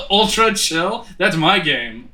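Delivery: proudly announcing it; excited. Real, not acted. Proudly names own game.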